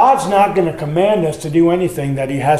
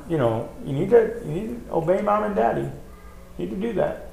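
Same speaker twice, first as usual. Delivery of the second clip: grandparent's mild admonishing; 10 dB quieter, much faster than usual. Retold or imitated. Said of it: "Outside, I say".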